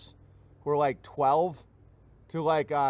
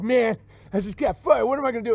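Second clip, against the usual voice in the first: higher, louder mock whine; whining laid-off worker; 6 semitones higher, 5 dB louder than usual. Laid-off worker complaining, mock whiny voice. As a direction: whine about getting fired. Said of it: "the people that are like".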